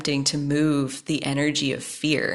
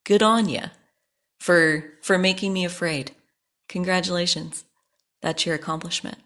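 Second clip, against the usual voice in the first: put-on Hannah Gatsby Australian accent. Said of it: "in her Australian accent".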